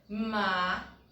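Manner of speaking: "macaco" as ma, ca, co with long gaps; syllable by syllable. Shown as a demonstration. Teacher locating the penultimate syllable, syllable by syllable. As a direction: separate each syllable of "macaco" with a clear pause. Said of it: "ele é a penúltima sílaba".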